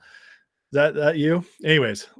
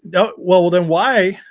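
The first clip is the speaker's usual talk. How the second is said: pressing, raised voice; tough questioner; 4 dB louder than usual. Retold or imitated. Interviewer grilling the candidate, loud and pressing. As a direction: push back hard, louder. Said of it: "he says".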